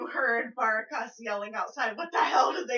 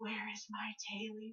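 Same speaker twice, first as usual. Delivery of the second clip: much quieter, disembodied voice calling out from inside; 2 semitones lower, 16 dB quieter than usual. Narrating a game scene, the speaker voices a disembodied voice calling out. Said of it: "you hear that voice".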